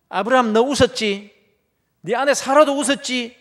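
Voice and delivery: God scolding Abraham. Acted. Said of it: "야단을 칩니다". (호통치는 하나님)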